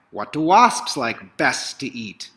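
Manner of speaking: spring up with the idea; excited baker's cry. Acted. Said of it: "leapt to his feet and cried".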